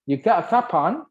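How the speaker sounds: imitated Scouse question, high-pitched; Liverpool accent. Shown as a demonstration. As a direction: try a lifted Scouse-style question. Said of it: "itu di Liverpool". (logat Liverpool tiruan, nada naik)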